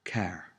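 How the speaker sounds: car with the final R sounded. Shown as a demonstration. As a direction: say car, pronouncing its R at the end. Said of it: "The R is always sounded out".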